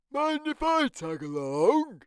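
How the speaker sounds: high, light character voice; Norman voice. Acted. Norman agreeing to the sleepover, high and bright. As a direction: lift into a small creature's voice.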